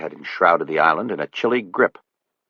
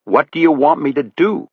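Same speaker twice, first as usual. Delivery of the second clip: higher, meek question; Buddy's voice; 8 semitones higher, 3 dB louder than usual. A narrator's reading. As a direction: ask helplessly. Buddy asks from behind him.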